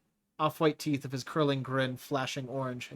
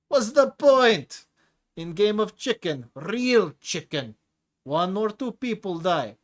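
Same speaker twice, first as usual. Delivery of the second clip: much higher and louder, slow and booming; excited outburst; 8 semitones higher, 9 dB louder, slower than usual. Acted. Tigra roaring about chicken to Leo, much louder. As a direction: throw the words up with your hands in the air.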